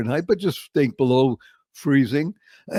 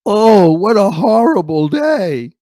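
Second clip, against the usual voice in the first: put-on gloomy kid's complaint; 5 semitones higher, 7 dB louder, slower than usual. Eight-year-old boy at the window, lightly mopey complaint. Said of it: "and I said, as an eight-year-old".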